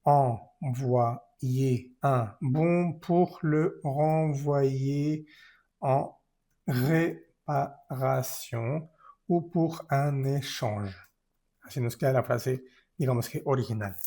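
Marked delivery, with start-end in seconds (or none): 0.0-10.9 very slow, words linked together; slow joined-up sentence for clarity; slow clear reading. Shown as a demonstration. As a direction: read it joined up, slowly. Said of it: "para que sea un poco más claro".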